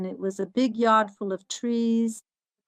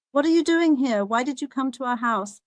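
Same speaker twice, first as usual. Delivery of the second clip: scared demand; 4 semitones higher than usual. Retold or imitated. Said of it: "I got even more scared".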